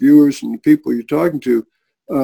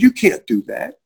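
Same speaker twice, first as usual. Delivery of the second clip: raised, put-on voice of a boss protesting; incredulous objection; 6 semitones higher than usual. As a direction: tell him flatly he can't. CEO objecting to Jewish convert.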